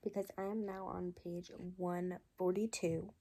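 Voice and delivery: hoarse, under-the-weather voice; talking through a cold; sick voice. Real, not acted. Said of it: "Sorry for my sick voice".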